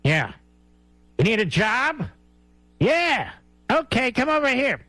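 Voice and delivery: high, hammed-up hiring pitch; mock casting call. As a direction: play a shady recruiter grabbing an actor. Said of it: "fly-by-nights that hires an actor".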